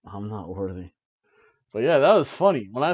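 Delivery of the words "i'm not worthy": mock bowing. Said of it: "I've been humbled".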